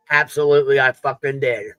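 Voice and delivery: speaking while chewing grapes; words round a bite of grape; mouth full. Real, not acted. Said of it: "I hear your mouth full".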